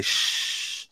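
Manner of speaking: long hushing "shh"; imitated shush. Recapper voicing Miyuki and the boss quieting Aoi, imitated shush. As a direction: softly mimic two people shushing someone. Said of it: "they both say".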